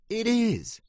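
high, loud squeaky duck insisting; insistent Drake. A narrator's reading. Drake insists to doubting ducks, high and loud. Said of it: "said Drake".

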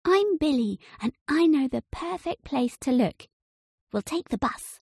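put-on chirpy kid introducing himself; Billy's voice. A narrator's reading. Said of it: "said the boy".

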